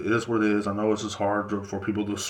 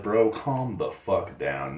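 slow, drawn-out put-down; exasperated telling-off; 3 semitones lower, much slower than usual. Acted. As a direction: stretch each word out to cool someone off. Acted reply to would-be fighters.

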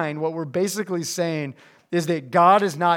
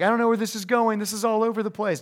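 higher, mock bewildered complaint; lightly voiced lost listener, pitched up; confused listener; 4 semitones higher, faster than usual. Preacher voices a listener lost in the outline, mock confused.

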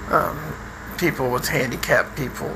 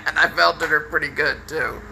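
laughing; 2 semitones higher than usual. Real, not acted. Laughs at his own joke.

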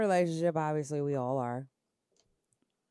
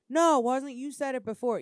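mimicking boyfriend; 8 semitones higher, 10 dB louder than usual. Imitating partner arguing back.

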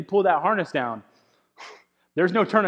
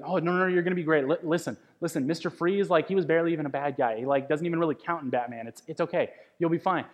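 quick, coaxing reassurance; reassuring dad; faster than usual. Retold or imitated. Dad calming his scared daughter in line, quick and reassuring. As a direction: talk her down fast and light. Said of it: "he's trying to pump her up".

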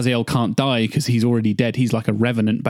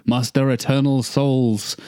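campy Shakespearean; 2 semitones higher, slower than usual. Acted. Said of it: "campy Shakespearean stuff".

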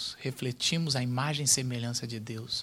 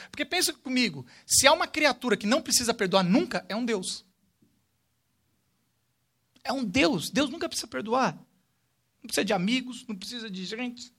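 rising preaching; 9 semitones higher, 6 dB louder, faster than usual. Acted. Preacher building to a peak.

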